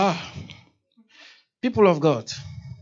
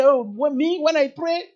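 bragging; 4 semitones higher, 6 dB louder than usual. Retold or imitated. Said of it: "You don't brag and say".

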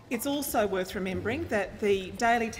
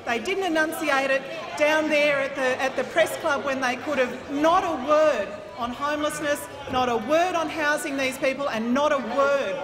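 raised, forceful; 3 semitones higher, 5 dB louder than usual. Real, not acted. Minister attacking opposition's lack of plans.

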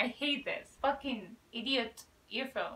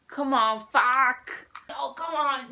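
frustrated shout; 8 dB louder, slower than usual. Real, not acted. Earphone still not working.

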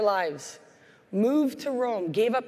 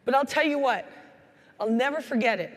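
ordinary talk, nothing marked

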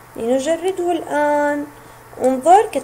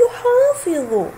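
slow teaching read; 5 semitones higher, slower than usual. Shown as a demonstration. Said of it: "انظر كيف أمسك حرف الضاد".

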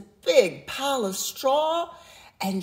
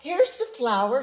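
shouted; 5 semitones higher, 4 dB louder than usual. A narrator's reading. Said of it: "shouted Jack".

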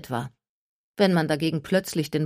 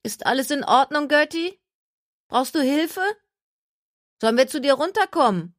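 called down the slope, higher and louder; calling out; 10 semitones higher, 4 dB louder than usual. A narrator's reading. Jenna calling down to injured Gertie, loud and concerned. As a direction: shout the concern down to her. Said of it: "Dann rief sie".

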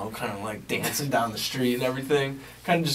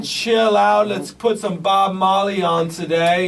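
much higher and louder, stretched out; hyped DJ shout; 8 semitones higher, 6 dB louder, slower than usual. Pretend. Radio host firing up Monday listeners, loud hype. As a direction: rev up the listeners like a party DJ.

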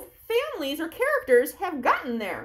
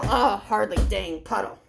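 grumpy; 4 semitones lower than usual. Acted. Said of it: "Stomp your feet like you're in that puddle".

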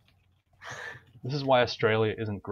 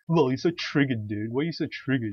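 loud higher whiny imitation of a toxic teammate; mocking a raging player; 3 semitones higher, 4 dB louder than usual. Retelling a flaming teammate, in a mocking loud whine. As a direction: ham up the entitled gamer. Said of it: "he's like".

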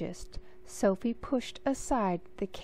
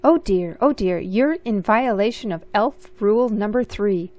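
fussing elf; 7 dB louder than usual. Acted. Fussy elf scolds Sophie.

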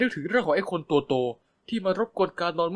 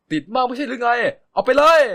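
annoyed shout; 8 semitones higher, 9 dB louder than usual. Acted. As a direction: shove the words out like the pillow. Shoving pillow between them, annoyed.

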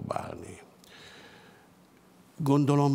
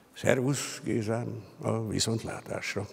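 soft, affectionate goodbye, a touch quieter; gentle farewell; 4 dB quieter than usual. Acted. Töreki bids Csalner a tender farewell, gently. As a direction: say goodbye kindly to an old friend. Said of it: "szeliden, kedveskedő hangon búcsúzik".

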